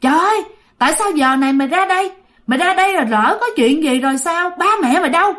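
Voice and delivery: quick, lightly scolding questions; mildly acted telling-off, voice lifting on the questions; retold scolding. Young rescuer wiping a wet child's face, mildly scolding. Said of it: "vừa la, vừa chửi".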